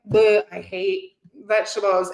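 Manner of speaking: put-on bleh of distaste; mock disgust. Acting out a vegetable hater, mock disgust. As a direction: play at being revolted. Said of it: "So if it's like".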